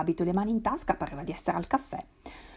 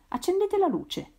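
higher, slower, raised call; shouted; 11 semitones higher, slower than usual. A narrator's reading. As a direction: call out for the lights to go on. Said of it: "gridò Guido".

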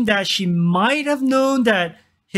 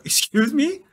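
indignant mother; 3 semitones higher than usual. Retold or imitated. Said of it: "You're like".

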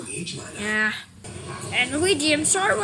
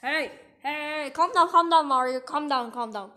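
soothing; 4 semitones lower than usual. Acted. Trying to calm Mario down, soothing.

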